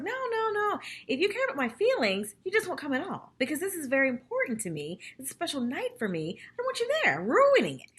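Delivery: high, pleading but firm no; insistent refusal. Retold or imitated. Carol firmly uninvites Ramona.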